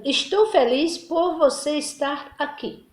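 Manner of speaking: careful, slow formal reading; formal standard phrasing. Shown as a demonstration. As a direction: say it in careful standard Portuguese, slowly. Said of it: "Linguagem padrão".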